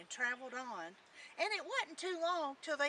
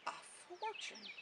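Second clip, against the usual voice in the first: soft, airy, slow cat voice; puzzled tomcat; 5 semitones higher, 10 dB quieter, slower than usual. Acted. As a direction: ask it slowly and softly as a cat. Tomcat puzzled by Jack's offer.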